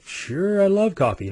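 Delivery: high-pitched, chirpy mock enthusiasm; eager acceptance. Guest answering customer's coffee offer, eager. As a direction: pitch it way up, over-agreeable.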